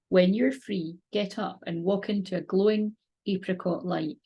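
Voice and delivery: slow, calm script reading; guided meditation reading. Acted. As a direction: read the meditation gently and slowly.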